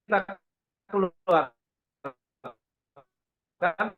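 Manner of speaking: choppy audio dropping out; connection breaking up. Real, not acted. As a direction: voice cutting in and out. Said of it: "Suaranya hilang".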